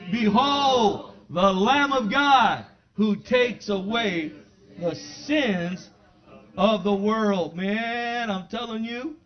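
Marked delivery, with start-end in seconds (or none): 0.1-7.5 loud, slow call of Behold, the Lamb of God; proclaimed with the congregation. Shown as a demonstration. Preacher leading the saints in a loud, slow proclamation. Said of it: "say that with me, saints".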